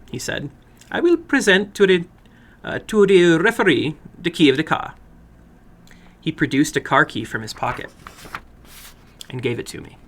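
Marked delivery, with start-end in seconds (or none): 0.9-4.9 higher, eager voice of a little foreign man; a little man running his game with relish. Acted. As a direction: play the little man, keen and formal.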